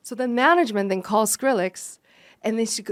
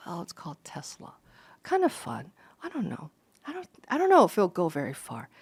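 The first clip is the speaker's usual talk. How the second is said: imitating a mumbling guy; 4 semitones lower than usual. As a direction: mumble it shyly, half whispered. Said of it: "kinda stuttering a little bit".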